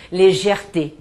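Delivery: légèreté said the French way, with its three accented e sounds; légèreté spoken with care as a French example; French word demo. Shown as a demonstration. Teacher showing students légèreté in French. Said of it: "Por exemplo".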